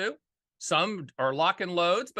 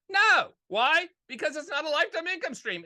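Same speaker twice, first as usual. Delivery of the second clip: emphatic no; 10 semitones higher than usual. Real, not acted. Emphatic answer to own question.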